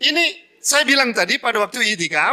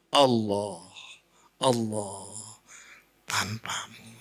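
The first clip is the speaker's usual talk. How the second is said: lower, trailing off into near-silence; fading whisper; 12 semitones lower, 9 dB quieter, much slower than usual. Shown as a demonstration. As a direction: let each name sink softer. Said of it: "Jangan bisik-bisik sama orang lain". (berbisik makin lirih)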